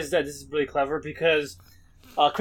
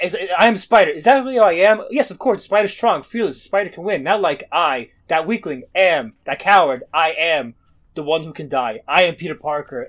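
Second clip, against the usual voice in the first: loud, raised declaration of spider strength; half-hammed heroic self-talk; self-aggrandizing inner voice; 7 dB louder than usual. Peter hyping himself up as Spider.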